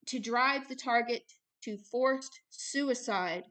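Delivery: measured, even reading voice; reading aloud. Real, not acted. Minister reading out how targets get harassed, measured. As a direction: read the document out carefully, phrase by phrase. Reads a written passage aloud.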